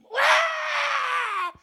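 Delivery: high, loud anguished wail; mock loud crying wail. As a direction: let out a loud lament. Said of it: "통곡이라고 하는 것은".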